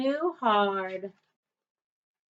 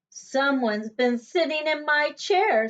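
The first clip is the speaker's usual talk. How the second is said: middle-sized voice; 4 semitones higher than usual. Acted. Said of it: "in her middle-sized voice".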